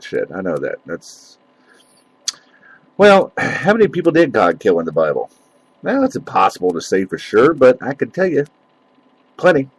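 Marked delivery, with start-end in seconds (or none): 3.0-5.3 lightly put-on radio host, higher than usual chat; pompous radio voice. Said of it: "my radio voice on now, you know, and sound pompous and arrogant". 5.8-9.7 mildly arrogant radio host; pompous radio voice. Pretend. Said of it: "my radio voice on now, you know, and sound pompous and arrogant".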